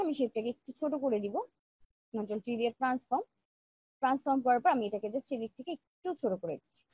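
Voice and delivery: quiet tired tutorial voice; speaking softly. Real, not acted. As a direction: keep it soft and quiet, a bit unwell. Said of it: "আমি কিছুক্ষণ আগে খুব আস্তে আস্তে কথা বলেছি".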